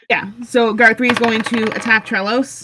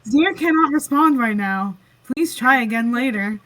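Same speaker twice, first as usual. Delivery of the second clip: Alexa. Retold or imitated. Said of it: "Sierra's now Alexa confirmed".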